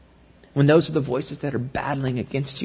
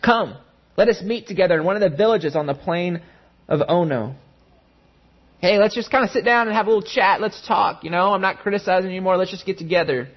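mock friendly, high coaxing invitation; lightly voiced wheedling schemers; coaxing enemies; 4 semitones higher, faster than usual. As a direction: sweet-talk him down off the wall.

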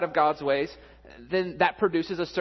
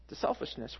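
hushed echo; 3 semitones lower, 8 dB quieter than usual. Shown as a demonstration.

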